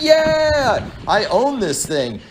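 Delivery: triumphant yell. Pretend. Landing a base jump, shouting in triumph. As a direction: burst out high, then slow and proud. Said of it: "you gotta be like".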